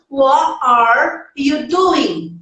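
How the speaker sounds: What are you doing said slowly, word by word; slow, neat and spaced out. Shown as a demonstration. Teacher contrasting careful speech with native speed. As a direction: lay each word down one at a time. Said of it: "bonitinho, pausadinho".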